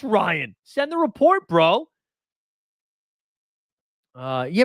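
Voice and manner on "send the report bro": high, pushy urging; eager plea. Real, not acted. Streamer to Ryan, wanting the news, eager. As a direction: hurry him up for the report.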